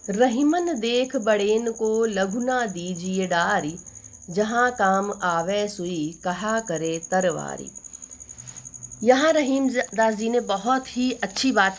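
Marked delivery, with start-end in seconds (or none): 0.1-7.7 slow, measured verse reading; couplet recitation. Acted. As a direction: recite the doha slowly, drawing out each word. (दोहे का धीमा पाठ)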